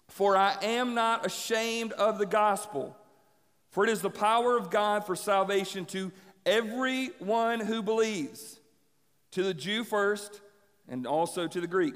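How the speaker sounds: slow, deliberate Bible verse; measured pulpit reading with weighty pauses; scripture reading. Real, not acted. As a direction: proclaim the verse phrase by phrase. Reads the verse aloud.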